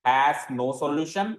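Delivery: very slow, drawn out; slow dictation. Shown as a demonstration. Teacher dictating the answer to students, slowly. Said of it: "कैसा होगा फिर?".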